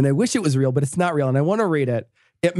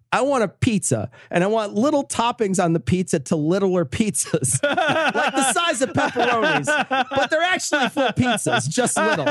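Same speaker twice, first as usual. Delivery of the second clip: higher, mock-earnest ordering voice; quoted pizza order; 7 semitones higher than usual. Reading a fake testimony's pizza order, mock-earnest. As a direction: order it with rising, half-laughed emphasis.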